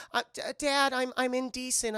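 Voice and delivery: high, stammering mock-daughter voice; imitated daughter caught off guard; flustered daughter. Daughter stalls dad at locked door.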